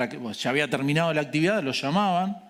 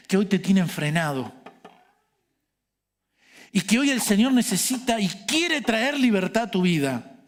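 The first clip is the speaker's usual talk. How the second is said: raised, emphatic preacher's exhortation; earnest preaching; 5 semitones higher than usual. Real, not acted. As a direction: preach it straight at the congregation, pressing each phrase.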